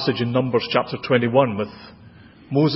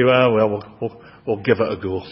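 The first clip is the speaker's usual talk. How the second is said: mock apathetic; 5 semitones lower than usual. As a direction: say it like you can barely be bothered. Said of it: "We're much more apathetic".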